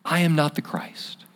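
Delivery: a hushed private admission; whispered confession. Retold or imitated. Preacher whispering the confession to himself, hushed whisper. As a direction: whisper it, unvoiced, to yourself.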